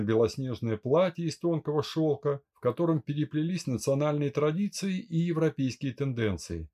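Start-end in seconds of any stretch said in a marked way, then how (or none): none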